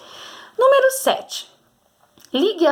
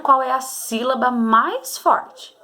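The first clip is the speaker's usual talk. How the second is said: slowed, each syllable laid out; slow, calm saying; 3 semitones higher, slower than usual. Shown as a demonstration. Teacher modelling how pupils should say it, slowly. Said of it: "falar com calma pra você descobrir".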